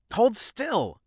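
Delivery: sharp high shout; shouted order. Acted. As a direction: bark the order loudly. Shouting at patient.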